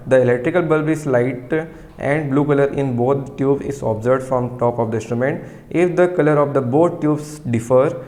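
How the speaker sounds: very slow, word by word, for students to write down; slow dictation. Shown as a demonstration. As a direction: dictate each word clearly so the class can copy. Dictating from textbook.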